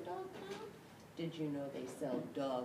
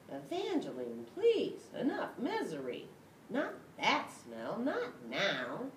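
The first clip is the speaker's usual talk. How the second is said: pleading cry; 7 semitones higher, 5 dB louder than usual. Acted. Dog begs cat.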